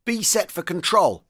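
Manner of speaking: high, slow shouted command; shout to other tanks. A narrator's reading. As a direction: call it out across to the crews. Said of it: "he shouted to the other tanks".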